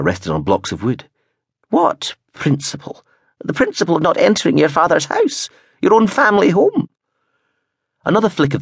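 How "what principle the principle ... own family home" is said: lightly voiced old woman, rising higher; a hint of a querulous grandmother. A narrator's reading. Gran questioning Prentice, then his higher reply.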